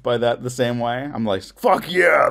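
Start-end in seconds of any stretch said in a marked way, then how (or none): 1.4-2.3 mock cheer. Enjoying Aliens.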